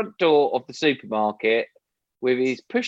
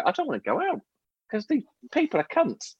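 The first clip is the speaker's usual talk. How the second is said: fed-up whine; 10 semitones higher, 4 dB quieter than usual. Retold or imitated. Fed-up quote of own reaction.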